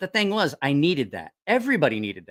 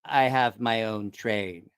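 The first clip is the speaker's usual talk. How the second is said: slow, low, awed simple voice; Paulo; 5 semitones lower, slower than usual. Retold or imitated. Paulo holding his new toy engine like a baby, slow low awe. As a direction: imitate a big man cradling his treasure. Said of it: "cradling the engine going".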